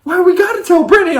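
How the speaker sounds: high, fast confused voice; confused goof. Retold or imitated. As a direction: blurt it out high and baffled. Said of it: "confused voice".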